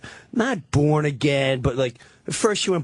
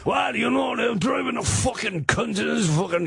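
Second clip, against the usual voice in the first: mock Brian; 4 semitones higher than usual. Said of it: "He's like".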